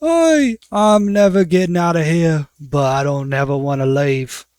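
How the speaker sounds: a proud lifer beaming; dwarf prisoner content to stay; smiling dwarf woman. Acted. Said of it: "she smiles and says".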